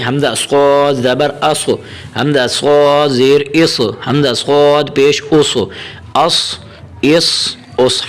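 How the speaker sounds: slow, measured Arabic letter drill; teacher reciting a Qaida drill slowly; Qaida drill recitation. Shown as a demonstration. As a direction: chant the letters like a Quran teacher.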